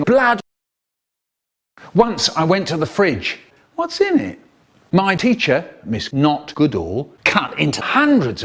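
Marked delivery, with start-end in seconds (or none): 3.8-4.4 much higher, piping; cartoonish squeak; squeaky voice. Squeaky question.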